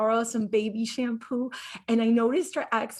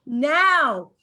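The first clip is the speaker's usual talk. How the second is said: a louder, punchier "Now." mimicking him; mock stammer; 6 dB louder than usual. The speaker mocking Troy's second "Now", louder. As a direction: say "Now." loud, as his second stumble. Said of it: "You just said two nows"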